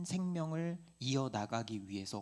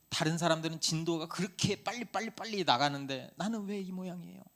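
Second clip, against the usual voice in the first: retold complaint; 4 semitones higher than usual. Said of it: "이렇게 원망 많이 했던 것 같아요".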